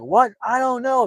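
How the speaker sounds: high, loud mock pleading; imitated desperate plea. Recapping a man tortured for a key, imitated desperate plea.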